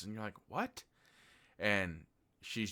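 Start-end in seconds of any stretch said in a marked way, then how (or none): 0.5-0.8 high, rising, incredulous "What?"; baffled, voice jumping way up. Retold or imitated. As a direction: blurt it out high in disbelief. Baffled reaction to absurd claim.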